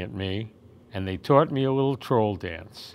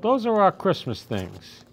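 calling out; 8 semitones higher than usual. A narrator's reading. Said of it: "I called".

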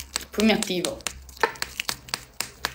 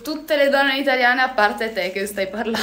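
reading the comment aloud through real laughter; breaking into laughter mid-quote; laughing while reading; 4 semitones higher than usual. Real, not acted. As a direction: read it out, barely holding the laugh in. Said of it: "Sto piangendo".

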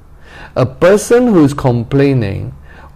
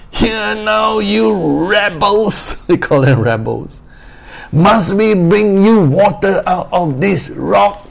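high, raised voice of an angry Moses; 8 semitones higher than usual. Acted. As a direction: scold the rebels like a furious prophet. Moses' angry words voiced in story.

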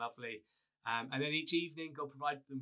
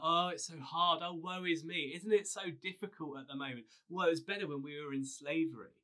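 higher, hammed-up woe-is-me whine; mock moaning; 3 semitones higher, 3 dB louder than usual. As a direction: lay on the self-pity for laughs. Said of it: "loved to grumble and moan".

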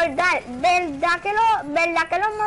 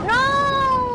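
sharp, high panicked yell of no; panicked shout; 9 semitones higher, 5 dB louder than usual. Real, not acted. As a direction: yell it as the fight is lost. Teammate dying in game.

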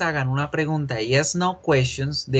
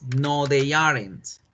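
slow model answer; slower than usual. Shown as a demonstration. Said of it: "modelled answer said slowly".

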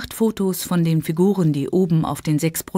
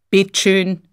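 a hint of a gruff Bavarian market woman; loud market woman; 3 semitones higher, 5 dB louder than usual. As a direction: call out Bittschön like a stallholder. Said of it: "die laute Stimme".

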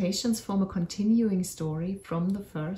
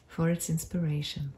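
unhurried meditation voice with long pauses; guided meditation. Acted. Narrator leads listeners on a magical forest walk, guided meditation. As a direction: guide listeners gently through an imagined journey, leaving space between phrases.

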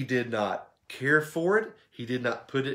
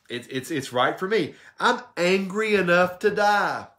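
half-acted anger, louder on the last line; retold angry retort that builds to a louder finish; mock inflamed Jonah; 4 semitones higher, 4 dB louder than usual. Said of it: "he was inflamed".

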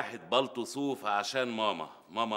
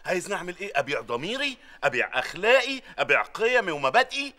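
rising higher and louder with each question; mock outrage building; 6 semitones higher, 5 dB louder than usual. Boss protesting to his employee, louder and louder in mock indignation.

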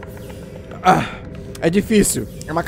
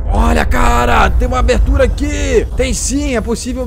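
excited call; 3 semitones higher, 5 dB louder, slower than usual. Real, not acted. Spots a cave opening underwater.

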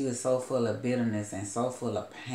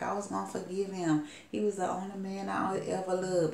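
much higher, grief-stricken lament; a retold, half-acted heartbroken cry; imitated crying out; 8 semitones higher than usual. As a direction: mimic the wail over a lost man. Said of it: "She was crying out".

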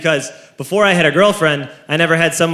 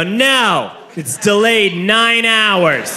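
gleeful refusal; 3 semitones higher, much slower than usual. Retold or imitated. Hostile airline staff refuse passenger.

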